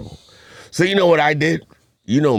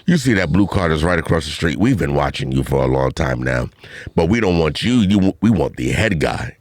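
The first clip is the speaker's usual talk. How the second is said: mock police constable; 5 semitones lower than usual. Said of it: "This is Constable Brown".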